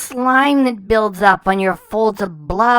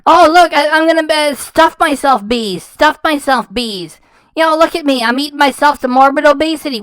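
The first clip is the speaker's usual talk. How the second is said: mocking imitation; 3 semitones higher than usual. Mocking her eating habits.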